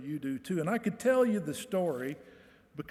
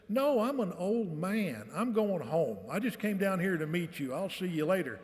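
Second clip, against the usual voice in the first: put-on old vet's voice; 3 semitones higher than usual. Retold old vet speaking, slow start.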